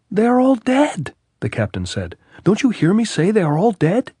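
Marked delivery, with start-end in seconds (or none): 0.1-1.1 high, loud insistence; captain shouting down the lieutenant; insistent shout. A narrator's reading. 2.4-4.1 high, loud insistence; captain shouting down the lieutenant; insistent shout. A narrator's reading.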